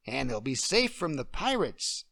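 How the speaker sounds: a little girl playing queen; child playing queen. Emily playing the queen for Deirdre.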